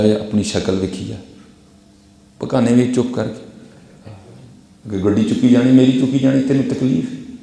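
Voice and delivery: scorn him like a rude bully, mildly; mock rude Punjabi put-down; rude scolding. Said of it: "انتہائی گندے لہجے میں اسے کہا".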